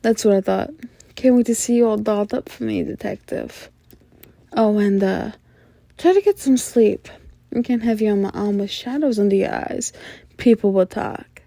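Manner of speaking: teasing, coy femme fatale with playful lilts and pauses; flirty mysterious informant. Acted. Informant coyly asking the detective out on a date, flirty and teasing. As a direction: draw out the flirtation, with sighs and little laughs.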